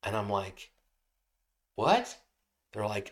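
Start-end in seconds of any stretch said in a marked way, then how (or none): 1.7-2.2 mock-startled, high rising question; a high, baffled yelp of a word. Driver hearing a mystery voice after a crash, startled.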